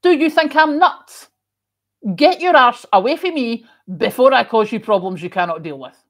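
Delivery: loud, high, furious yell at a stranger; angry Scottish shout. Retold or imitated. Squaring up to a stranger in a pub, loud furious shout. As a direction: roar it at him, threatening. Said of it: "You turn and go".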